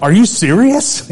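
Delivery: high, slow stunned question; can't believe what you just heard; amazed disbelief. Retold or imitated. Stunned by gift of car.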